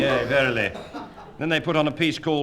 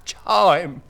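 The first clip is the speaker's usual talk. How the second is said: mock shout; 8 semitones higher, 8 dB louder, much slower than usual. Shouted studio cue.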